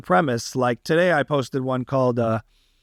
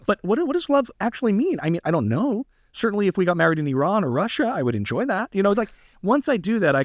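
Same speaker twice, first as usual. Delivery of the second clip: Tucker Carlson impression; 5 semitones higher, faster than usual. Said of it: "Tucker Carlson was giving his wedding vows".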